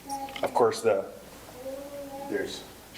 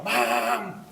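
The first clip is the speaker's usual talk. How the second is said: half-hearted yell, stretching the word; mock yell; 2 semitones higher than usual. Kids calling their mom to the phone, mild mock yell.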